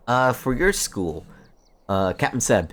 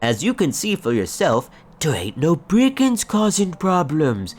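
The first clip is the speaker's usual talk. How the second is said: gruff ranger NPC; 4 semitones higher than usual. Acted. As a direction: lay out the problem gruffly. Continues NPC dialogue.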